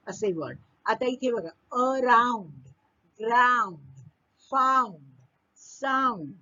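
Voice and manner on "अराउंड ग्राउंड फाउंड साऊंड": अराउंड, ग्राउंड, फाउंड, साऊंड with the shared "ound" drawn out; matching rhyme sound. Shown as a demonstration. Teacher showing rhyming words, अराउंड, ग्राउंड, फाउंड, साऊंड each slowly stretched on "ound". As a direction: stretch the same "ow" vowel in अराउंड, ग्राउंड, फाउंड, साऊंड, one word at a time. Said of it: "त्यांचा उच्चार सारखा आहे".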